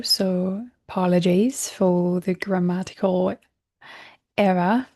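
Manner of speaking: put-on playful British accent on an apology; mock-formal British accent. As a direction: slip briefly into a British accent. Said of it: "I did a British accent".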